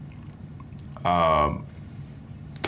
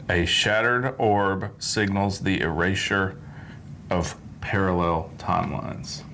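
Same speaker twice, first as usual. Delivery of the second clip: slow, deliberate title read; slow careful reading; slower than usual. Shown as a demonstration. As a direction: spell out each word slowly. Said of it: "let me make sure I get this right".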